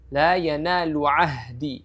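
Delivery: slow La yanalu ahdi, both throat letters sounded; careful ahdi from the throat; clear ain and ha. Shown as a demonstration. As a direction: correct demo. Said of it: "ain di sini ada huruf ha".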